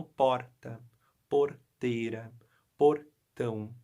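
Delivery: porta, porteira, portão with the capital's tapped R; São Paulo capital R. Shown as a demonstration. Teacher contrasting the São Paulo capital accent in porta, porteira, portão. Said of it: "eles também não falam porta igual nós".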